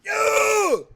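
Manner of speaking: loud, high yell; sudden shout. Real, not acted. Hyped by the game, sudden loud shout. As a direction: blast a single yo.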